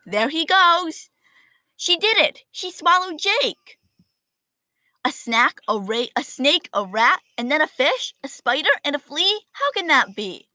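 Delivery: put-on excited high kids' voices. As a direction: gasp it out like horrified kids. Kids in class react.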